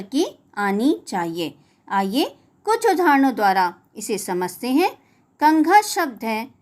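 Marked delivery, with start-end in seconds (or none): 5.4-5.8 कंघा said with a nasal ङ before घ; clear pronunciation. Shown as a demonstration. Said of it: "इस शब्द का उच्चारण करते समय ध्वनि अंग". (कंघा में अनुस्वार को ङ की तरह बोलें)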